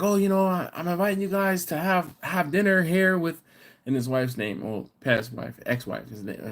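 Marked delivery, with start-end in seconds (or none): 0.0-3.4 quoting Chris excitedly. Retold or imitated. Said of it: "So he's like".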